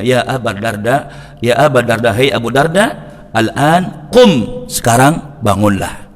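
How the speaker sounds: soft, slow coaxing call to wake; gentle waking call. Retold or imitated. Salman softly wakes Abu Darda, slow and gentle. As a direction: ease a friend awake at night.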